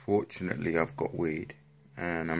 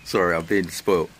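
whispered through a laugh; a sheepish, laughing aside; 5 dB louder than usual. Real, not acted. Vlogger apologising to viewers for moaning, laughing whisper.

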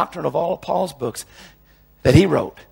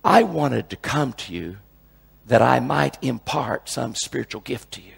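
slow, lower, reverent reading; true quote; 3 semitones lower than usual. Shown as a demonstration. Preacher giving the real Romans verse, slow and reverent. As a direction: read the real verse slowly and gently. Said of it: "it says".

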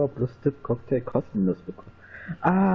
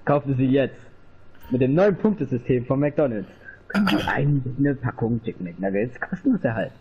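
chipper 1950s ad. Pretend. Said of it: "Werbung für Dings".

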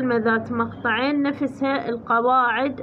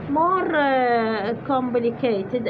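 slow repeat; much slower than usual. Shown as a demonstration. Repeats the phrase slowly.

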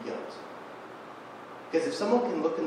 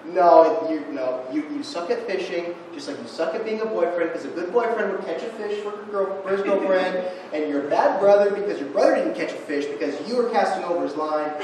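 accusing voices; 3 semitones higher, 5 dB louder than usual. Retold or imitated. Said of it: "there's voices like".

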